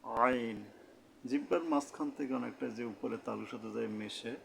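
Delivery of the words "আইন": আইন squeezed out from mid-throat. Shown as a demonstration. Teacher models the Arabic letter, throat-squeezed আইন. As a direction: press the throat to sound a long আইন. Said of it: "গলা চেপে আদায় করতে হবে".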